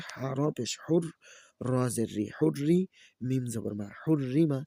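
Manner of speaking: sing-song letter-by-letter chant; Quran-primer teacher's recitation; spelling drill recitation. Shown as a demonstration. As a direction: spell each syllable, then lift the joined word. Spells out Arabic syllables for learners.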